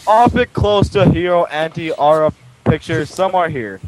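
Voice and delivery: flat robotic reading voice. Acted. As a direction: read it like a robot, monotone. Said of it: "I literally sounded like a robot reading that".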